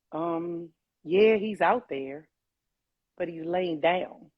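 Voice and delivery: slow, hesitant retold reply; drawn-out, uneasy quote; something's not right. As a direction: gently imitate someone reluctant to break bad news. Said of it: "I can tell by his voice".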